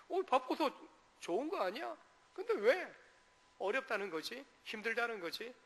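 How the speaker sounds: high, baffled asking; puzzled question. Retold or imitated. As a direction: wonder aloud why busy is bad. Confused listener voiced.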